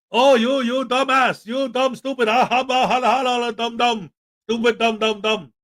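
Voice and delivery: a hint of a fake Arab accent, muttered insults; mocking fake Arab accent. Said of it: "with his fake Arab accent".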